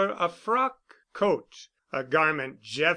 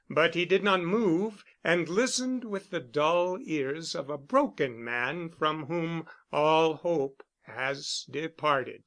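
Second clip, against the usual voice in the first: ordinary delivery, nothing marked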